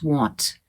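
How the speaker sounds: "want" rounded toward won't; "want" with a closed O like won't; imitating the student. Teacher mimics a student's mistaken want. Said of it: "Then he says want".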